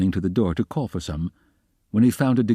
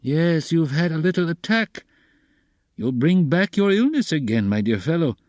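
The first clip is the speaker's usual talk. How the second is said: high, clucking sympathy; fussy, high-pitched solicitude; friendly sympathetic cackle; 9 semitones higher than usual. A narrator's reading. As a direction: cluck over a sick friend. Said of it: "cackled with friendly sympathy".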